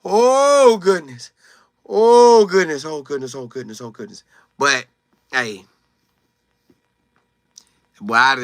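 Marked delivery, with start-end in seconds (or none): 0.0-4.2 loud then dying to a murmur; fading exclamation. Real, not acted. Host repeating oh goodness, loud to barely audible. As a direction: start loud, let it fade away. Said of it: "repeated exclamation fading out".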